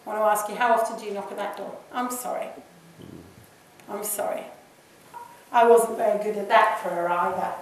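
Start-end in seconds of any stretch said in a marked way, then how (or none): 1.9-4.4 soft, subdued repeated apology; quiet apology. Acted. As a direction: say sorry very gently, pausing between. Modelling the prayer of apology.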